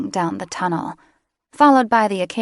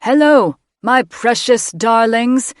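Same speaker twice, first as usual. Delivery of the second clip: much higher and louder, slow cooing; loud doting call; 5 semitones higher, 8 dB louder, slower than usual. A narrator's reading. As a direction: call out to the eggs with creepy love. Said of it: "he said aloud, his voice echoing".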